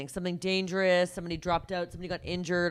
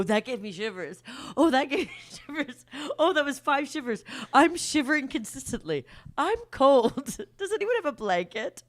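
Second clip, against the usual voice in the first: mocking overreaction; 5 semitones higher than usual. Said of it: "before you go".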